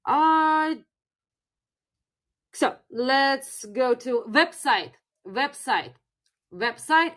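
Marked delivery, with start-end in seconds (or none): 4.3-7.1 "website" modelled as the Russian loanword; teacher's demo of "website" with a Russian accent; Russian pronunciation. Shown as a demonstration. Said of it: "let's try with some other words".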